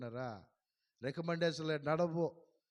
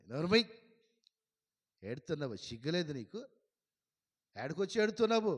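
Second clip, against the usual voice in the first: scolding rebuke; 3 dB louder than usual. Retold or imitated. Pastor scolding a weeping woman, loud rebuke. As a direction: rebuke her for crying here.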